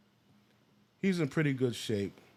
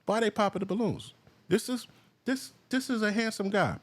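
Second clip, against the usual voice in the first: incredulous; 11 semitones higher than usual. Real, not acted. Incredulous reaction to video.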